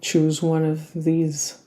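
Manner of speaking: unhurried yoga nidra guidance with long pauses; calm body-scan meditation voice; guided relaxation. Real, not acted. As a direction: guide them gently into rest, leaving space between phrases.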